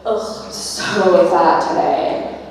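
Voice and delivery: mock self-loathing groan, drawn out and loud; commiserating groan. Women commiserating about their bodies, mock groaning complaint. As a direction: draw it out in exaggerated complaint. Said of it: "we would commiserate together".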